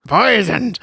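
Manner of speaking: Poisoned said as pizened, rising; mock pronunciation. Shown as a demonstration. Friends joking about the word, say Poisoned as pizened.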